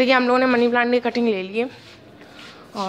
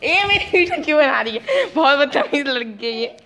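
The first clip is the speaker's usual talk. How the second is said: playful scold, higher and laughing; mock scolding; 4 semitones higher than usual. Real, not acted. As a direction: tease her with mock outrage. (बेटी को हंसते हुए झूठमूठ डांटना)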